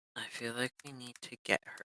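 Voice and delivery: quiet, muttered under the breath. Suggesting a plan to the group, saying it under one's breath. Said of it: "say this, like, under my breath again".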